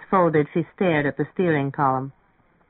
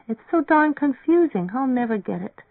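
put-on high-pitched frustrated girl; confused girl giving up, pitched high; exasperated; 8 semitones higher than usual. A narrator's reading. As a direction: complain in a raised, flustered pitch.

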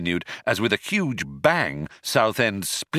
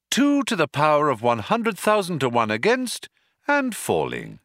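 sensible voice; 4 semitones higher than usual. Acted. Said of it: "quite a sensible voice".

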